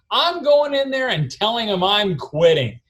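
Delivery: half-acted yell through the door at the family; retold yell. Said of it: "yelling at the".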